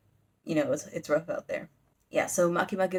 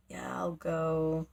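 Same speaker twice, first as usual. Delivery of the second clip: slow, softer resigned imitation; reluctant giving in; 2 semitones lower, 5 dB quieter, much slower than usual. Boy told to fetch the devil agrees, mock reluctant. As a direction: drag it out, grudgingly acted.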